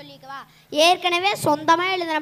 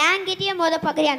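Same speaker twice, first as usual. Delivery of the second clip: louder, offended என்கிட்டயே punched; indignant louder challenge; 2 semitones higher, 5 dB louder than usual. Acted. Poet bristles at the stranger who dares to test him, louder. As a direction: bristle and throw it back at him.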